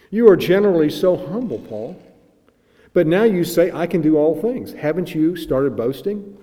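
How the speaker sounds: loud, high, incredulous challenge to Paul; the old preacher confronting the apostle with mock disbelief; dramatic old preacher. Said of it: "used sometimes to preach in a dramatic way".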